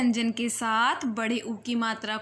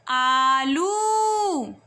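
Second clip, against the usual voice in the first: loud repeat; much slower than usual. Shown as a demonstration. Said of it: "जोर से बोलेंगे".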